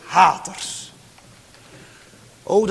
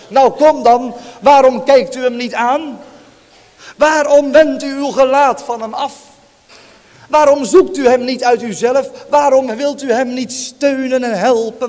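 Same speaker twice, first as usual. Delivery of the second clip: louder, pressing rhetorical questions; urgent pleading; 4 semitones higher, 5 dB louder than usual. Real, not acted. Preacher to congregation, urgent loud pleading. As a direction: press the hearers with each waarom.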